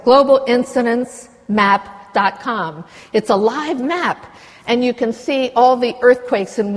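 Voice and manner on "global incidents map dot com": slow, careful dictation of the address; spelling out a web address. Shown as a demonstration. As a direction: say "global incidents map dot com" word by word, slowly. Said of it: "the, the website".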